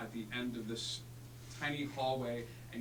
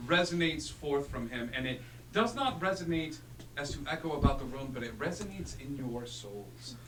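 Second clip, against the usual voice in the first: epic narration. Acted. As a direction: narrate it like a legend.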